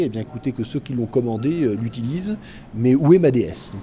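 a hint of a haughty old general, rising to a loud protest; de Gaulle voice. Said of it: "il aurait déclaré".

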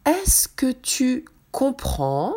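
slow, high, questioning nun; lightly voiced questioning nun. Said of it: "nun's question in dictation".

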